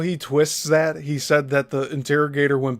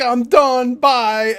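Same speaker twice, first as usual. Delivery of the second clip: mock dismissal; 9 semitones higher, 6 dB louder, much slower than usual. Retelling the man walking out.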